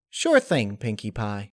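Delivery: chirpy Laughter voice. Acted. Laughter agrees.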